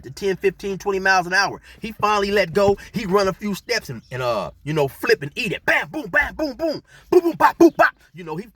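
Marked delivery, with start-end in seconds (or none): 5.6-7.9 high, loud boom bam sound effects; mock crash sound effects; tumbling noises. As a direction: act out the crash with your voice. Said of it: "sound of him tumbling".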